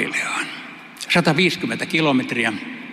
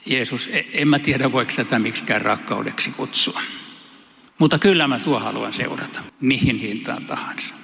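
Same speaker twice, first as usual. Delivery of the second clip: hesitant sincere prayer. Pretend. Preacher imagining answering Jesus, hesitant and sincere. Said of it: "Mä kai vastaisin jotenkin näin".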